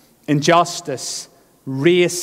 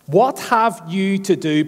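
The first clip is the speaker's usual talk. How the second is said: slow, a touch higher demon's challenge; demon crying out; 4 semitones higher than usual. Acted. Demon crying out to Jesus, slow and slightly raised. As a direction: draw it out like a wary demon. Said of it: "and he cried out".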